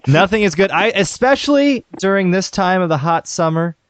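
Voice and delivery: slow, drawn-out ad pitchman voice; Bill Cosby impression. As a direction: stretch it like an old TV ad. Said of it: "your Bill Cosby impression".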